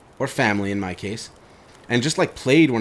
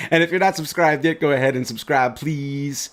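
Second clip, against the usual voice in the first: playful sing-song request; funny sing-song ask; 4 semitones higher than usual. Acted. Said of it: "when I say it funny".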